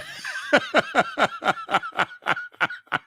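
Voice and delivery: high wheezing laugh; real laugh, high and breathy; burst of laughter. Real, not acted. Laughing at viewer comment.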